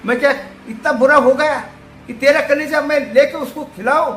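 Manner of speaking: anguished protest. Acted.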